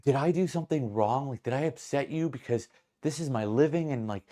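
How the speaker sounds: mock-sweet appeal to departing customers; nicer-sounding server. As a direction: plead politely, as a put-on server. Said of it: "making her sound, like, a lot nicer".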